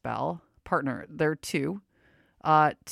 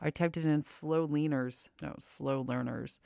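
talking through a face mask; muffled voice behind a cloth mask; 3 dB louder than usual. Real, not acted. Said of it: "If I sound muffled, it's because I do have a mask on".

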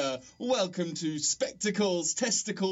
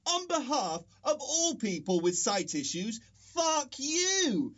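angry; 2 semitones higher than usual. Acted. Angry outburst.

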